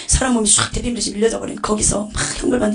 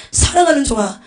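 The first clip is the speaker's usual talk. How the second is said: loud, higher-pitched reproach; stern, raised-voice lament of reproof; divine rebuke; 5 semitones higher, 6 dB louder than usual. Retold or imitated. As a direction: rebuke a servant as Jesus on the throne. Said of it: "예수님이 책망하시더라고요".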